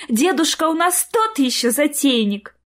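high, gushing invitation; put-on Snow Maiden enthusiasm; false merriment. A narrator's reading. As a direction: talk up the fun too cheerily. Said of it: "фальшиво рассмеялась Снегурочка".

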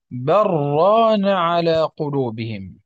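"بل ران" run together as "بران"; slow, the lam of "بل" dropped into the ra; slow assimilated recitation. Shown as a demonstration. Teacher reading it as those without the pause do: "بل ران" merged. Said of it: "يواصل القراءة".

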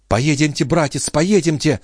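high-pitched coaxing sister; lightly acted female pleading. A narrator's reading. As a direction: urge brother along, pitched high. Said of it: "приговаривала Шон".

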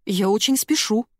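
high, hurried excuses; flustered squeak. A narrator's reading. Narrator flustered trying to escape, high and squeaky. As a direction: blurt nervous excuses. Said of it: "вякнула я".

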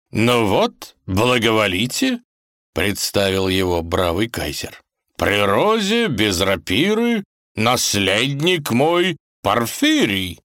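hammy rhyme-maker; proud kaiser. Acted. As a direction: announce the heir with flourish. Kaiser presents his heir in verse.

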